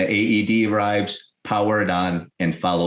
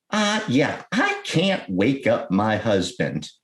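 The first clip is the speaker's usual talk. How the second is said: worried caller; slower than usual. Retold or imitated. Retold 911 caller, worried wife.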